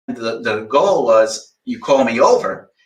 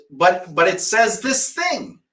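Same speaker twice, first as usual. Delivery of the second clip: slow, higher, whiny imitation; mock whiny quote; 4 semitones higher, slower than usual. Mocking a student's excuse, slow and whiny. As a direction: drag it out like a stubborn student. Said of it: "and your answer is".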